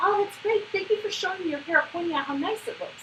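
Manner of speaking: cheery, high, loud cheering voice.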